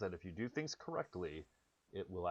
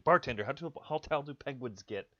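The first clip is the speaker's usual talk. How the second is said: louder, higher, in a rush of mock panic; panicked; 5 semitones higher, 4 dB louder than usual. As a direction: play a man frantic about penguins. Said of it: "he says very panically".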